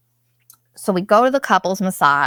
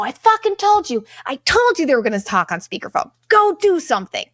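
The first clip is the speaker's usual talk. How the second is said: higher, heated scold; exasperated scolding; 5 semitones higher than usual. Retold or imitated. Telling off the waiter about the speakerphone people, exasperated. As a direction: let the waiter have it.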